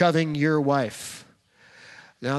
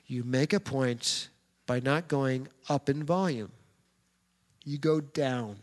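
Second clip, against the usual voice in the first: soft, low, measured delivery; down in volume; 4 semitones lower, 6 dB quieter than usual. Shown as a demonstration. Preacher demonstrating to husbands that softer works, quiet and low. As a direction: make the point by getting quieter. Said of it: "See how it worked?".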